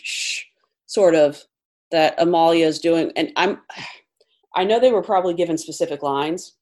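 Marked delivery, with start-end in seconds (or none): 0.0-0.4 imitated shushing. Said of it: "you hear the shh".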